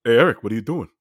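friend's dad impression. Dad catching drunk kid on lawn, light impression. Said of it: "his dad lurking in the corner".

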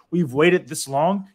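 put-on slow, deliberate quote of a firm teen; quoting daughter. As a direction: draw it out like a teen laying down the law. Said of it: "her exact words were".

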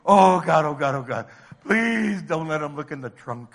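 loud, repeated panicky oh Gods; hammed-up anxious pleading; mock freaking out. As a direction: play a nervous desperate prayer. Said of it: "You're freaking out".

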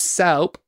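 "soap" said as "sowp"; imitated mispronunciation. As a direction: say "soap" with an ow vowel. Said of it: "Not soap".

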